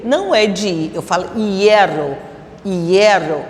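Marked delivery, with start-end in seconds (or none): 1.4-3.4 "hierro" said twice as ye-rro; E joined on. Shown as a demonstration. Teacher modelling for pupils, "hierro" with the E joined to the I. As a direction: glide from I straight into E in "hierro". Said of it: "eu pronuncio o E junto também".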